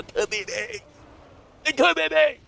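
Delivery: high-pitched playful insistence; mock-hopeful high voice; squeaky hopeful hype. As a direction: pipe it up high, half joking. Hyped about possibly winning award.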